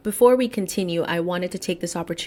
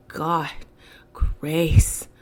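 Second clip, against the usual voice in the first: almost unvoiced, just under the breath; whispered aside. Real, not acted. Speaking to listeners, murmurs a prayerful aside in a whisper.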